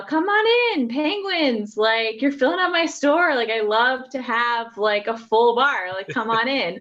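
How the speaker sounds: welcoming Irish bartender; Irish accent. Acted. Bartender waves penguins into his bar, Irish accent. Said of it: "in an amazing Irish accent".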